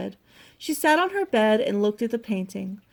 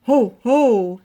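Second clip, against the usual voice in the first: loud, booming shout of discovery; Bear; 10 dB louder than usual. A narrator's reading. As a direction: shout it out in delight. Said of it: "he shouted".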